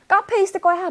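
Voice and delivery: high, acted cry of realization; exclaimed realization. Ellen realizing at home the gift is missing, high exclamation. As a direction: cry out high as the thought hits. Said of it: "소리 지르면서 깨달은 거죠".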